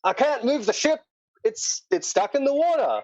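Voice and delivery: high-pitched, exasperated captain; protesting ship captain. Acted. Captain argues with dock worker over stuck ship, high protest. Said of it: "and the captain's like".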